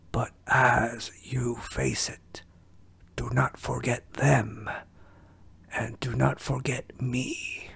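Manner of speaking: put-on whispery old ninja master; Splinter voice. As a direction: wise rat sensei, hushed and grave. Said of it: "So I wanted to try Splinter out".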